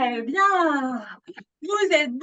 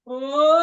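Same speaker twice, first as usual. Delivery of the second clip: vowel laugh; 2 semitones lower, 5 dB louder than usual. Shown as a demonstration. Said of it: "Encore un petit O".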